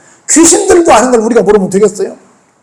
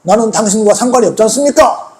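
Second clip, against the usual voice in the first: acted protest, slightly raised voice; mildly indignant quoted demand; confronting; 2 semitones higher than usual. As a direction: challenge him like an accuser. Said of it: "라고 따집니다".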